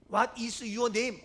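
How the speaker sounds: very slow, stretched-out imitation of native American English; mock American accent. Shown as a demonstration. Preacher demonstrating native American pronunciation, slow mock American accent. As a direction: drag out How old are you like a native. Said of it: "본토 발음".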